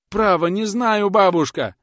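high, loud begging cry; desperate pleading wail. A narrator's reading. Grinder wailing desperately at the old woman. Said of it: "вопил точильщик тоном отчаянной мольбы".

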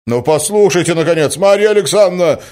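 high, loud, baffled protest; exasperated cry. A narrator's reading. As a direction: cry out at her in bewilderment. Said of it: "вскричал озадаченный Мозгляков". (озадаченно, вскрикивая)

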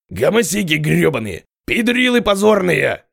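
furious high yelling, slowed; raging shout. Acted. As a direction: spit the insults out in rage. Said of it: "ярился Костоправ".

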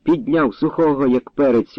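ordinary delivery

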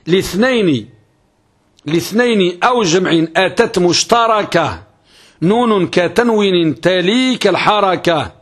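slow, measured metrical recitation; unhurried scholarly chanting of verse. Acted. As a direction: recite the didactic poem line by line, drawing out the long vowels.

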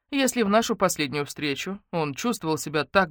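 ordinary delivery

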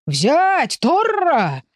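high, ringing shout of a hunting call; mock bullfight cry. Man urging his goat after a raccoon, high excited yell. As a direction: egg the goat on like a matador's crowd.

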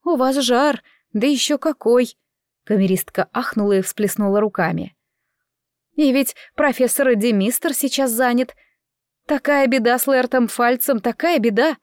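a touch of a servant's alarm; mildly lamenting, fussy maid; worried maid. Acted. Maid frets over fever and mishap.

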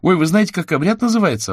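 put-on a little girl delighted, bursting out; glad. A narrator's reading. Girl gladly tells the wizard, excited and high. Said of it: "обрадовалась Алёна".

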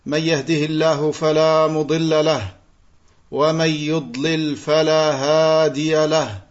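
level, measured Arabic sermon recitation; practised liturgical recitation with little pitch movement; formal opening invocation. Acted. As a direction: recite the opening praise evenly, on a steady near-monotone.

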